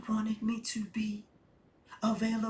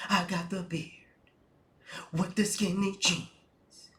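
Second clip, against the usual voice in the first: slam poet parody; 2 semitones lower than usual. Pretend. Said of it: "Simps sound like slam poets".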